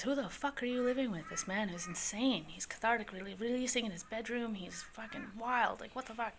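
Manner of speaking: mock-outraged messenger; incredulous complaint. Sister's alarmed message about roommate, retold.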